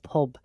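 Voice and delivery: pub said low from the bottom of the throat; throaty pub. Shown as a demonstration. Showing friends the Manchester way to say pub. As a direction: drop pub deep into the throat, round u. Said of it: "like, the bottom of your throat".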